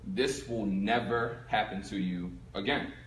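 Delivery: low, soft, slow vow to himself; quiet vow. Retold or imitated. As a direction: swear it quietly into the mirror. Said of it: "and I'm like".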